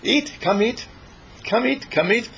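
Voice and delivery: high, sing-song calling to the kitten; calling the cat. Retold or imitated. Owner puts food down and calls the kittens in a high coax. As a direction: coax the cats to their bowl. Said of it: "you say".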